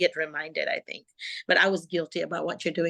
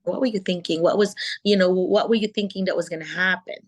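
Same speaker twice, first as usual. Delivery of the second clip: calm teacher voice; 3 dB louder than usual. Shown as a demonstration. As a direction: coax the child to explain, no scolding. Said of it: "I would always like very calm voice".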